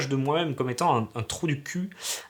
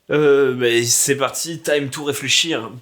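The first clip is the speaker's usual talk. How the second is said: hyped kickoff; 3 semitones higher, 6 dB louder, slower than usual. Pretend. Kicking off the brainstorm.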